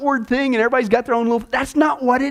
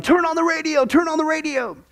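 retold yell; 6 semitones higher than usual.

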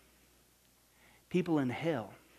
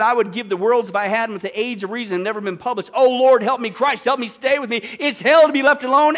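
dying man's plea; 8 semitones higher, 12 dB louder than usual. Retold or imitated. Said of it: "he said".

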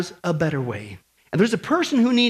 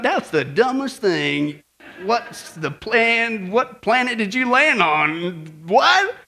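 mock disbelief; much slower than usual. Acts out listeners' baffled reaction.

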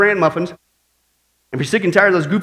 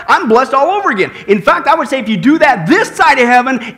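raised, driving sermon voice; emphatic preaching; 2 semitones higher than usual. Acted. Pastor urging the congregation to study prophecy, emphatic preaching. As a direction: preach it with conviction.

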